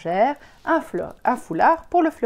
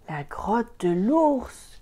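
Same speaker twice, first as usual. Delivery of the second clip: cri de Peter; 3 semitones higher, much slower than usual. Acted. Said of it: "crie Peter".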